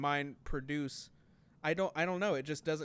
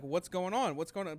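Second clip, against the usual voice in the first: urgent, slightly raised mock panic; retold freak-out; 4 semitones higher, 3 dB louder than usual. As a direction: demand answers, imitating rising alarm. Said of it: "already freaking out".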